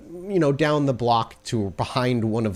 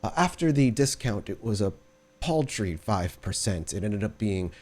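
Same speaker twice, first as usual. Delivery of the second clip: lightly voiced courtly servant; 4 dB quieter than usual. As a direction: report the bill politely. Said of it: "he said".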